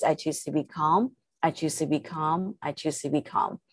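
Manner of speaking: soft, settling repetition; calm self-talk. Shown as a demonstration. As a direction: say it softly to yourself, letting it sink. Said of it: "say that three times".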